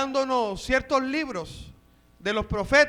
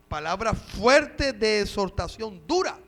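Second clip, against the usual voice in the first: FUERTE drawn out and heavy, DURA jumping up in pitch; stress on FUERTE and DURA. Real, not acted. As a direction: lean hard on "fuerte" and "dura". Stressing how hard the word was.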